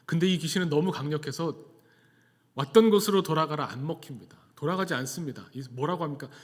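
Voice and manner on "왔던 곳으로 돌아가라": raised-voice retold order to a demon; loud, emphatic dismissal; mock exorcism command. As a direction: push the command out louder, as if casting out. Same command against stronger demon.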